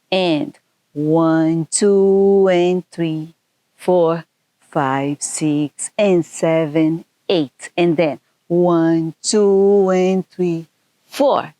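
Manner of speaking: rhythmic count-in, steady beat; counting out the moves in time; counting dance beats. Shown as a demonstration. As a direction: call the counts like a dance teacher.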